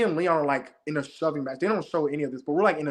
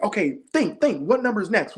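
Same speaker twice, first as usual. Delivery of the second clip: urgent, higher-pitched mock yell; retold yelling; 5 semitones higher than usual. Player urging Kareem to work out the numbers, mild retold yell. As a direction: press them hard without really shouting. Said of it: "I'm, like, yelling at him".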